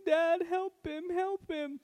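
put-on high, slow little girl's plea; pleading little daughter. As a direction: voice the small daughter begging her dad. Daughter crying for help.

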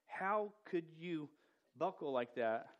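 slow, pointed "How could you buckle like that?"; a drawn-out, half-mock reproach; accusing rebuke. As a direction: scold Peter for caving. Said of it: "sometimes we look at something even like this and go".

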